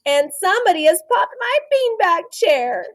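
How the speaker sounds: put-on a small kid telling on someone; little person voice. A narrator's reading. Teacher voicing the little person for the class, mildly upset. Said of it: "said the little person".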